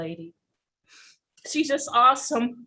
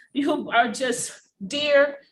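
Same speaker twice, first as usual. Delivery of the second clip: emotional; slower than usual. Real, not acted. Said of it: "sorry to get emotional".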